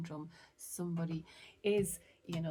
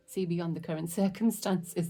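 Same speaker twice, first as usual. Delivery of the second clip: excited, laughing, louder; 7 dB louder than usual. Real, not acted. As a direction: laugh breaking into the last word. Excited reader laughs mid-sentence.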